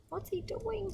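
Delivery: puzzled aside. Real, not acted. Reader's aside to kids.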